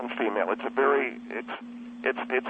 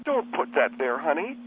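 softened request; 2 semitones lower than usual. Acted. Repeats his yelled order more sweetly.

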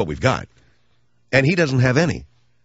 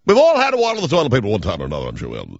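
lightly mock the rival host; Comb Over Boy voice; 3 semitones lower than usual. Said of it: "And he talks like he said".

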